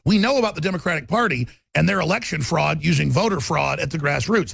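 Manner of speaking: normal talking voice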